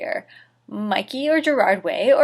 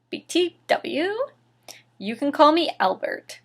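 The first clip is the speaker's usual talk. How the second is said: called out; 6 semitones higher than usual. Acted. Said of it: "he called".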